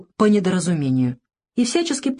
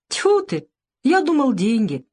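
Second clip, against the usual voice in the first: disgusted scoff; 6 semitones higher than usual. A narrator's reading. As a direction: spit out disappointment. Disappointed bully spits out. (презрительное разочарование)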